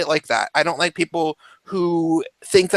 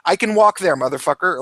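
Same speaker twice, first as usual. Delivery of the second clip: retold threat; faster than usual. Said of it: "But I will definitely say".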